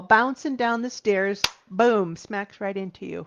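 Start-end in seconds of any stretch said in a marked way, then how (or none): 1.7-3.3 laughing through the punchline. Real, not acted. Speaker to audience finishing her ball analogy, laughing. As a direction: let a laugh break into the words.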